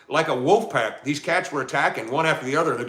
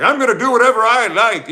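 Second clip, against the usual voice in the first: cat's inner voice; 10 semitones higher, 7 dB louder than usual. Retold or imitated. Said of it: "They're just like".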